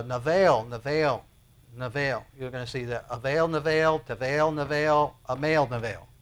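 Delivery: navail repeated, each one falling; Hebrew word. Shown as a demonstration. Preacher drilling the Hebrew word navail, repeating it. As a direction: chant navail over and over. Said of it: "the one word that he's gonna repeat".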